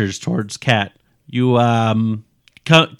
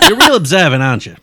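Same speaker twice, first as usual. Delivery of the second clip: sarcastic; 5 semitones higher, 7 dB louder, faster than usual. Acted. Sarcastic cop mocks witness.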